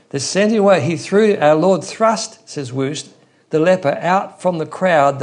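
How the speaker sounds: high and loud, hammering every word; forceful preaching. Real, not acted. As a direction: drive it home from the pulpit.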